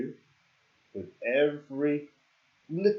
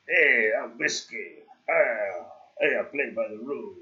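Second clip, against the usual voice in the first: put-on awful Spanish accent. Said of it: "What, what accent was that?".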